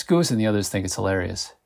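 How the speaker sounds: plain reading voice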